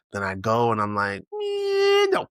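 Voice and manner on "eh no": high falsetto whiny eh, no; mock whiny refusal in a high voice; reluctant groan. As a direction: squeak it out like a reluctant kid. His own reluctant reaction.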